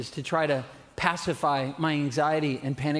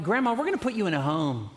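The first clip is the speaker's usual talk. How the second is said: fast, higher, laughing mock threat; joking teen threat; 3 semitones higher than usual. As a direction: tease grandma like a cheeky teen.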